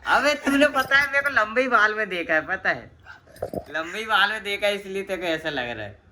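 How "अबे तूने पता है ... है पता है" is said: bursts out high and loud in protest; a loud, high-pitched "arre, you!"; excited outburst. Real, not acted. Protesting to his friend about his haircut, loud excited outburst.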